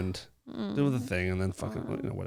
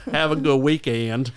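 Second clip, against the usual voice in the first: imitating her botched Irish as Southern; slow, teasing Southern mimicry; mock Southern accent; 3 semitones lower than usual. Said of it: "try again then. Let's do a little better than".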